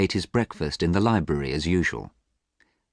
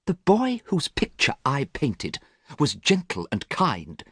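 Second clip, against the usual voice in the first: sad; 8 semitones higher, slower than usual. A narrator's reading. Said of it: "said Basil sadly".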